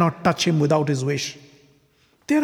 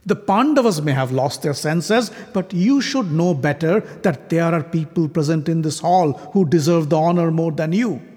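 scornful rebuke; 4 semitones higher than usual. Acted. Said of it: "He turned towards Krishna and said".

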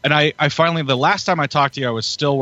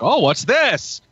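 higher, intrigued mock surprise; retold surprise; 11 semitones higher, much slower than usual. Viewer walking in on a brutal murder scene, surprised. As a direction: act out stumbling onto something startling.

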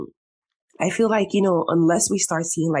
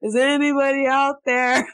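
calling out; 9 semitones higher, 3 dB louder than usual. Retold or imitated. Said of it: "I'll go on Twitter".

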